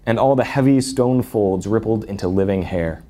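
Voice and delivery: put-on animated read-aloud of a children's fantasy; story narration. A narrator's reading. Speaker reading Narnia's statues coming to life, animated story narration. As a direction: read it like a storybook, lilting through the lists.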